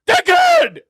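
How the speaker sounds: furious high screaming insult; angry shout. Pretend. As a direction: scream it in a rage. Shouted outburst, called dad talking.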